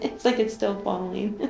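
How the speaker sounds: real amusement breaking the calm; amused, through laughter. Real, not acted. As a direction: remark squeezed between laughs. Laughing between two bursts of laughter.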